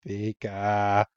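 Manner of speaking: low, soft little Pika; a quiet lightly voiced Pikachu. Podcaster quoting Pikachu in a soft little Pika. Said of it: "Pikachu's like".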